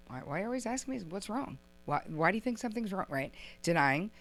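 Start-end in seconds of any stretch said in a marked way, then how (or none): 0.1-3.1 higher, quick, softer protest; mock defensive denial. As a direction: play someone denying they are annoyed. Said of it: "you're denying feelings of anger".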